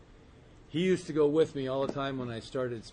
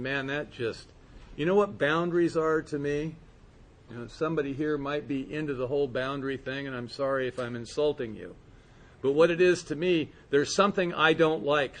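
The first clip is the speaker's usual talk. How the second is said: ordinary talk, nothing marked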